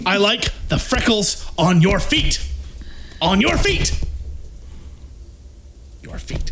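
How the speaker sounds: rising, sing-song movie line; impression cadence. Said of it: "Trying to hit the cadence".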